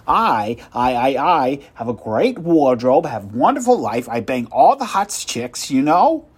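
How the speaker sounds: puffed-up boasting at full volume; loud bragging. Acted. Salesman bragging loudly.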